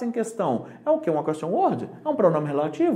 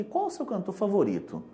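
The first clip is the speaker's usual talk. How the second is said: quieter repeat; 7 dB quieter than usual. Shown as a demonstration. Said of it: "Não é comum falar isso aqui".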